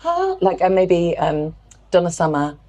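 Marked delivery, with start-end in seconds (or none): 0.0-0.4 airy high ah; breathy sung ah. Shown as a demonstration. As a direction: let air through the tone. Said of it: "a breathy timbre".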